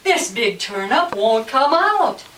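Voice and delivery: slow, heavy rhythmic chant; loud story refrain. Acted. Farmer stuck with the turnip, loud slow chant. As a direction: pound out each word loudly, drawing it out. Refrain after second pull.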